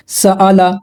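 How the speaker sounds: सआला recited with short vowels; recited word. Shown as a demonstration. Teacher reciting सआला for students, vowels kept short. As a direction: say सआला without stretching. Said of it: "साला या साला नहीं पढ़ना".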